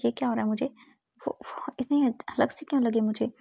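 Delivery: soft, breathy murmur to himself, slowing to a whisper; quietly confused self-talk, almost whispered; hushed to himself. Acted. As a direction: wonder aloud under the breath, heart racing. Wiying alone, heart pounding.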